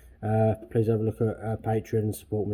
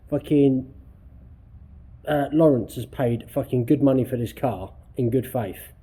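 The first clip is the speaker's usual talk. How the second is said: angry; 4 semitones higher, 4 dB louder than usual. Real, not acted. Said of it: "This is actually starting to piss me off".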